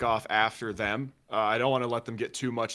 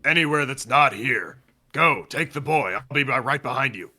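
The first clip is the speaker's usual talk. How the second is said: loud, forceful command; urgent order; 3 semitones higher, 8 dB louder than usual. Acted. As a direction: send them running with a raised voice. Player answers panicked militia with orders.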